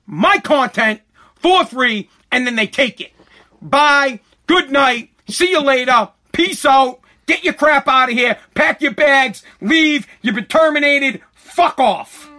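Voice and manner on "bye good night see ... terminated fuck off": real anger in short bursts; angry send-off. Real, not acted. Angry creator telling TikTok to get out, fed up. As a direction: dismiss them hard, one phrase at a time.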